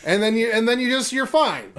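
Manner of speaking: high, hammed-up Australian accent; lively put-on Australian voice, breaking into a laugh; mock Australian accent. Host joking that any Australian will do, hammed-up Australian accent.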